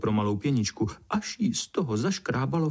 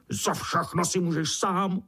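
high squeaky beetle scolding; squeaking beetle; 5 semitones higher than usual. A narrator's reading. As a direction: squeak your blame at the ant. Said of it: "pištěla".

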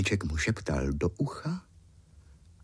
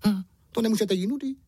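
high, fast cross little goblin; high, fast, indignant imp voice; angry imp; 13 semitones higher, much faster than usual. A narrator's reading. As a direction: snap at them in a squeaky rush. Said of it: "křičí a zlostně".

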